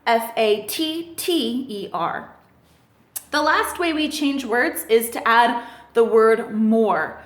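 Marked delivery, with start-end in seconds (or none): 0.1-2.3 spelled out slowly. Shown as a demonstration. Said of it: "it becomes fatter".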